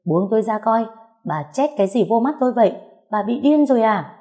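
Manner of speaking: struggling, hurt and furious; pained yell. Acted. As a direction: scream to be let go. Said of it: "Đau đớn tôi hét lên".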